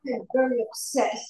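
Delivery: badly faked, restrained indignation; robotic upset. Practicing anger for the sponsor, robotic and half-hearted. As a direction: announce displeasure like a dutiful exercise. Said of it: "I did it robotically".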